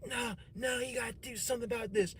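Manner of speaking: high, fast mock of a nagging girlfriend; high-pitched, hurried imitation of an insistent girlfriend. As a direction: push him to act, pitched high and quick. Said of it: "she was like".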